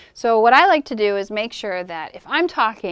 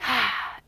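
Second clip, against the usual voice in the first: puppet breath sigh; 6 dB quieter than usual. Shown as a demonstration. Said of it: "my breath is matching with Coretta".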